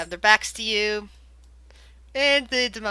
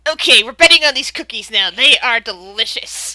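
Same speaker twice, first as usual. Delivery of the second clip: reindeer satisfied; 8 dB louder than usual. Acted. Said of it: "you hear the reindeer saying".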